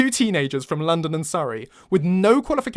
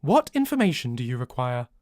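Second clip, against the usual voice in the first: flat monotone; 3 semitones lower than usual. Acted. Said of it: "it states in a flat monotone".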